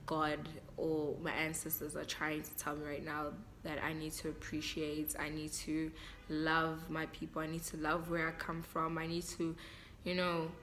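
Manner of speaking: softly, moved, holding back tears; quiet and emotional. Real, not acted. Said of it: "I'm getting emotional".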